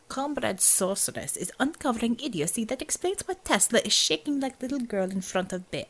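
put-on sour, sneering Russian accent. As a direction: spit it out sourly, in accent. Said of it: "Xavier said sourly".

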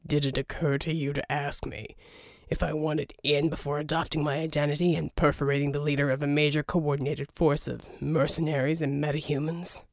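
underplay it, wry and cool; Jack voiced. Jack answering dryly.

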